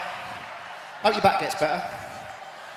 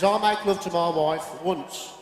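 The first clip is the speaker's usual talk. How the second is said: put-on Brummie accent; 3 semitones lower, 4 dB quieter, slower than usual. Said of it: "And the Brummie says".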